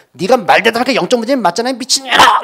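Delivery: 높고 크게 내지르는 화난 엄마 흉내; 악쓰며 몰아붙이는 엄마 연기; 엄마의 고함. Retold or imitated. 엄마가 딸에게 되받아침. (따지는 딸에게 악쓰는 엄마)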